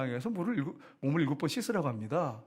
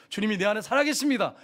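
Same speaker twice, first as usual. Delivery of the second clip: higher-pitched proclamation of faith; declaration; 5 semitones higher, 4 dB louder than usual. Shown as a demonstration. Pastor showing believers how to calm anger, firm declaration. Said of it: "그리고 선포하시고".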